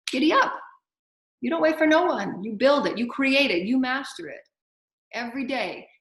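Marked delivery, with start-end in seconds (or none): 0.1-0.5 high, loud rallying cry; loud giddy up. Acted. Preacher urging listeners to get moving, loud rallying cry. 1.4-2.4 emphatic exhortation. Real, not acted. Preacher rallying listeners.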